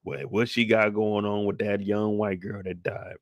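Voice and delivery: a fed-up precinct captain barking orders at his detectives; grumbling boss laying down the law, tired and irritated; captain chewing out his squad about Burke; police captain. Acted. In-character captain rant to detectives.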